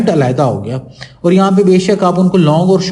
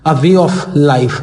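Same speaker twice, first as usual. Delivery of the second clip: reading the meaning; 3 semitones lower, much slower than usual. Shown as a demonstration. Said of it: "साथ में उसका meaning भी लिखा हुआ है".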